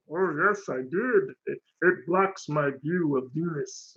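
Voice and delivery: lightly voiced cartoon alien; a hint of polite alien villain; Marvin the Martian. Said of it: "Marvin's funny".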